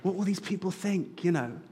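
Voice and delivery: put-on soft, embarrassed whisper to the child; a parent shushing a kid mid-service; hushed scolding whisper. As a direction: hiss it under your breath, half laughing. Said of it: "And I say".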